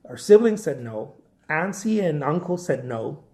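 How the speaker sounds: ordinary delivery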